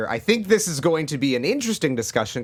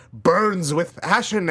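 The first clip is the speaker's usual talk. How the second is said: dramatic tagline read; 3 semitones higher, 4 dB louder, much slower than usual. Acted. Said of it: "this was the tagline they used".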